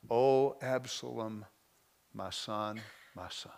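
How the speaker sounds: slow grieving cry that dies away; grieving king. Acted. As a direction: mourn a lost son, drawn out. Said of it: "the king was deeply moved... and wept".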